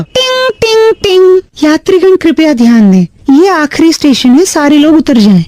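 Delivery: metro announcement. Pretend. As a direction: chime then station announcement. Prank caller fakes metro announcement.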